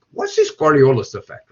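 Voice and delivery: put-on Spanish accent; playful mock-Spanish accented question. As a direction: ask it with a light Spanish accent. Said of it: "did that with a Spanish accent".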